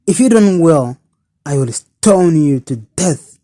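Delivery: rageous outburst. Acted. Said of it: "burst out rageously".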